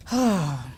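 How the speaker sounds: low, soft acted sigh. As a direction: let out a heavy sigh. Older lion ponders sadly.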